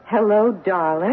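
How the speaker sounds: slow, rising "Hello, darling" in surprise; surprised greeting. Retold or imitated. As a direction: greet someone you weren't expecting. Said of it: "with a tone of surprise in her voice".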